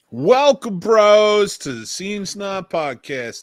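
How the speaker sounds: loud, weird New York accent. Podcast host opens the show and welcomes the listeners: weird New York accent. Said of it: "with a weird New York type of accent".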